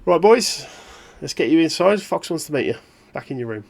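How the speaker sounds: a hint of a brisk English bloke rounding them up; English accent. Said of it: "You notice he's English".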